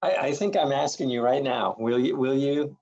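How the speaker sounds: normal talking voice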